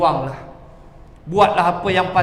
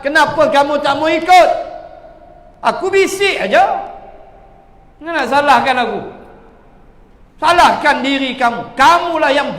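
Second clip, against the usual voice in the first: Satan taunting; 4 semitones higher, 4 dB louder than usual. Acted. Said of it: "Setan kata".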